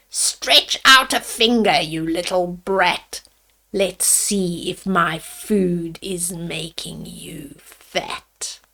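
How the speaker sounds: a low, sly witch's taunt fading to a whisper. Acted. Witch sneering at caged Hansel, fading to a whisper. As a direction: sneer at the caged boy, then drop to a hiss.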